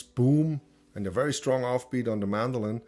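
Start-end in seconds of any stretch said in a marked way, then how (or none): 0.0-0.6 mimicked bass thump. Shown as a demonstration. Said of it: "So you have the bass".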